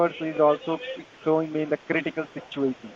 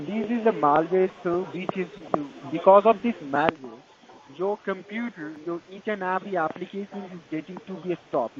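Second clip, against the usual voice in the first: Indian call center. Real, not acted. Tech support scam call agent.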